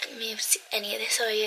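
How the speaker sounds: soft fast whisper; hushed aside while unwrapping. Real, not acted. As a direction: breathe it out under your breath. Quietly opening gifts on bed.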